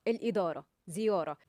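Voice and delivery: "الإدارة" and "زيارة" ending in eh; final vowel said eh, not ah; Egyptian eh ending. Shown as a demonstration. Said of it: "الكلمات المنتهية بألف أو بتاء مربوطة في اللهجة الخليجية بتنطق". (نطق "الإدارة" و"زيارة" بنهاية مصرية)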